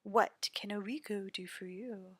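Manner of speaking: seductive charmer voice; flirty rogue. Acted. Oriko continues.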